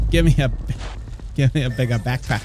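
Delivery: put-on playful Jamaican accent, breaking into a laugh. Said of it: "In Jamaican accent".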